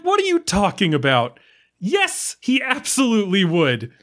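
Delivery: outraged, can't believe what's said; incredulous. Real, not acted. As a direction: pitch jumps way up in disbelief. Disbelief at the prosecutor.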